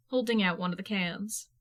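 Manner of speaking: plain reading voice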